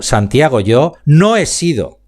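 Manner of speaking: "Santiago" rising, with "no" stressed in a slow "yo no he sido". Shown as a demonstration. Speaking coach showing students how stress changes meaning, leaning on no. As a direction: lift "Santiago", then slow down and lean on "no". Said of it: "en donde yo ponga la velocidad y la entonación".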